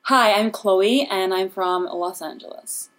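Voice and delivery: slow, drawn-out put-on Los Angeles American accent; a Brit doing a phony Los Angeles accent, drawn out. Brit guest hams a Los Angeles accent for the host, phony Los Angeles drawl. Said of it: "sounds like a phony Los Angeles person's voice".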